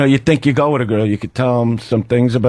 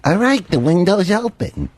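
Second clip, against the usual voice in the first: lightly imitated agent, pitched up; a hint of an eager believer, higher voice; Dennis; 4 semitones higher than usual. Agent reporting back to Superman, high light imitation. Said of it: "and he's going".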